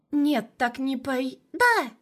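put-on high, loud childish cry; little girl grabbing the treats, high loud cry; excited little girl. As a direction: squeal it as she jumps up. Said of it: "воскликнула Ксюша".

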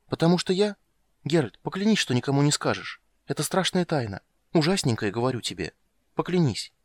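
put-on high childish urging; a girl demanding an oath; secretive little girl. Ciri to Geralt, high and pleading. Ciri's voice.

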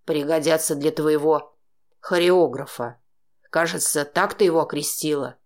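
low man's voice, sneering and precise; mock her with each word. A narrator's reading. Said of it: "Издевательски уточнил он". (низкий издевательский мужской голос)

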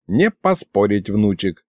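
put-on low, subdued old man; conceding grandpa. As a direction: concede calmly to your grandson. Grandpa concedes after battle.

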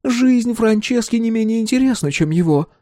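high, heated woman's voice; indignant Mary Ellen. Acted. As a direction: complain with rising indignation.

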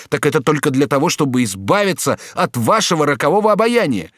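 high, loud anguished protest; tormented young man. A narrator's reading. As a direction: pour out his torment. (юноша в отчаянии упрекает герцогиню)

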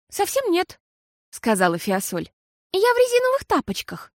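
put-on high, childlike voice for Fiasol; little girl voice. A narrator's reading. Girl Fiasol talks to her mama, high childlike voice.

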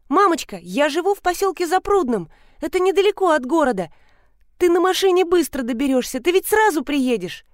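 put-on a small boy explaining where he lives; eager child. A son tells his mother the way home, eager. Narrator voices child Vanya.

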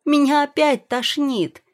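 high, loud wail of distress; crying out. A narrator's reading. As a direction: shout urgently, about to be sick. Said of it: "закричала Юэ". (отчаянный высокий крик)

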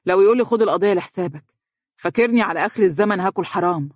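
mildly mocking, incredulous remark; scornful. Lawyer dismissing dirty money, mildly scornful. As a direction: scoff lightly at the very idea. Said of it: "وهز رأسه متهكما وهو يقول".

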